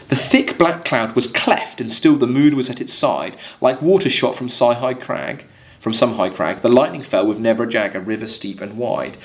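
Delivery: measured verse reading to the class; poem reading. Acted. Teacher reading Coleridge verse to students, measured poem reading. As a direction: read it like a poem, letting lines ring.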